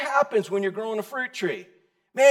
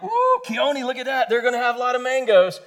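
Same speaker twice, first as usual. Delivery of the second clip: excited; 3 semitones higher than usual. Retold or imitated. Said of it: "and I'm like".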